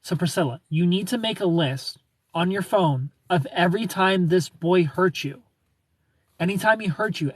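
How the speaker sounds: lightly put-on American accent. Shown as a demonstration. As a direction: give the advice in an American accent. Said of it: "I'll do an American accent".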